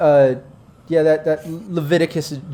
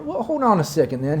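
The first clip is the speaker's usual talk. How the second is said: genial Southern gentleman's drawl; Dixie drawl; 4 semitones higher than usual. Acted. Local boss complimenting a stranger's Southern charm, Dixie drawl. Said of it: "my southern drawl got a little bit of that Dixie charm".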